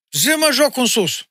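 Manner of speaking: imitating a wedding guest calling out to the band; mock call. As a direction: call out for the band to play a dance tune.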